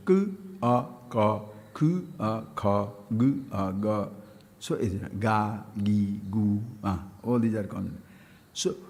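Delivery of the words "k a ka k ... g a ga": consonant, vowel, then joined syllable, as in "g, a, ga"; letters combined. Shown as a demonstration. Teacher showing how vowels complete consonants, "k, a, kha" built sound by sound. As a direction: sound each part, then blend: "K, a, ka". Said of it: "combination of letters".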